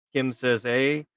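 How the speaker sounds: ordinary talk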